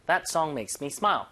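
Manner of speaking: slow, clear teaching read; slow model sentence. Shown as a demonstration. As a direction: say it slowly for learners to copy. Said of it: "makes me smile 해도 되죠". (천천히 시범 읽기)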